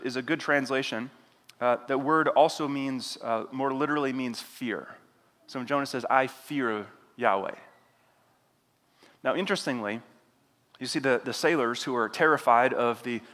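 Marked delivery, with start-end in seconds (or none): 6.1-7.6 solemn claim. Shown as a demonstration. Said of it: "you're supposed to sort of chuckle".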